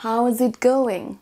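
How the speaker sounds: how is it going? spelled out slowly; slow model phrase. Shown as a demonstration. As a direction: say it slowly for learners. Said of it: "alternative-là qu'on entend très très souvent".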